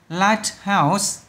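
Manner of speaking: "Lighthouse" slowly, stress on LIGHT; first-syllable stress. Shown as a demonstration. Teacher showing compound stress to pupils, first-syllable stress. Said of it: "âm đầu".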